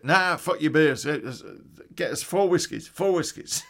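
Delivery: brash order. Retold or imitated. Irish guy at the bar rejecting the beers, brash and loud. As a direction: wave off the beers and demand whiskies.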